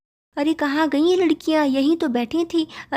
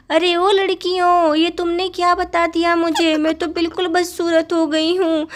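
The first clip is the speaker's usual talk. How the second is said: upset demand; 2 semitones higher than usual. Acted. Ugly younger wife, yelling at the girls to fix her, upset demand. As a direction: demand an answer in a panic.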